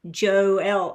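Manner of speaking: Joelle said as jo-ELLE, two clear beats; carefully saying Joelle after misreading it as Jolie; corrected name. Shown as a demonstration. Reader fixing the viewer's name, saying Joelle properly. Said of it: "Oh, Joelle. Sorry, I thought it was Jolie".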